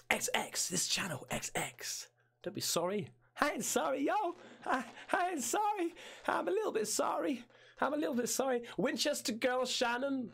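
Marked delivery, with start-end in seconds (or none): 3.4-10.3 high squeaky playful voice; teasing a viewer in a silly high voice; mock high voice. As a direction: squeak it out cheekily. Playful mock voice answering chat.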